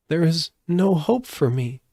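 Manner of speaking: put-on high, downcast little girl's voice; Dorothy telling her friends, voiced high and sad; sadly. A narrator's reading. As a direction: sigh it out like a hopeless child. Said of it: "she said sadly".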